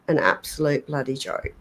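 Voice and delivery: slipping into an English accent. Real, not acted. Co-host giving a verdict on the cruise ship, English accent. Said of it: "there I go with my English accent again".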